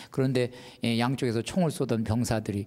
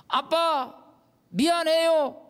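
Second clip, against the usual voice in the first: put-on high little child saying sorry; child's voice; 3 dB louder, much slower than usual. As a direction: apologize like a small kid. Child's repentance prayer. (사과하는 어린아이 목소리)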